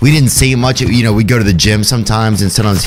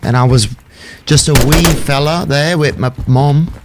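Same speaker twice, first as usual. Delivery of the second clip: higher, fast put-on British accent telling a life story; 4 semitones higher than usual. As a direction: spin a yarn in a hammed-up British accent. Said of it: "I don't know how British to get".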